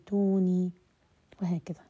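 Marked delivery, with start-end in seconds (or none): 0.1-0.7 توني louder, read as tuni joined on, no hamza; teacher showing how the reciter joins it; hamza dropped into a long vowel. Shown as a demonstration. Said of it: "إنما قال في السماوات".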